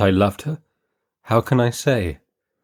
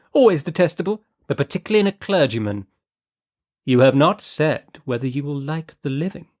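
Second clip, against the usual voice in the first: lightly voiced haughty lady, higher; a hint of a grand, fussy noblewoman; Lady Fareway; 5 semitones higher than usual.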